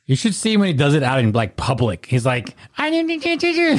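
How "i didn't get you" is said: high, slow put-on voice; podcast voice. Mimicking his public podcast voice for the hosts, high and slow. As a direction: stretch it out, pitched way up. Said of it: "That's the podcast voice only".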